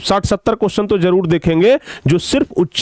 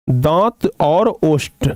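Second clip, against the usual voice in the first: दांत और ओष्ठ slowly, word by word; slow dictation; slower than usual. Real, not acted. Teacher breaking down दंतोष्ठ for students, slow dictation. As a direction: spell out each word at an unhurried pace. Repeats the word's parts for students.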